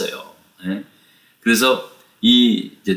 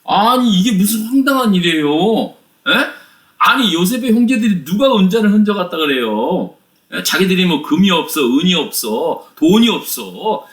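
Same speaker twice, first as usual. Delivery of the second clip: high-pitched, wronged protest; acted indignant disbelief; 8 semitones higher than usual. Brothers denying they stole the silver cup, indignant disbelief. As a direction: protest as if falsely accused. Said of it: "너무나 황당하고 또 억울하기도 하고".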